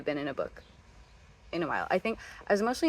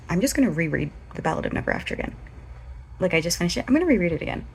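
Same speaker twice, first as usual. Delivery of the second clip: excited self-quote; 6 dB louder, much faster than usual. Retold or imitated. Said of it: "I was like".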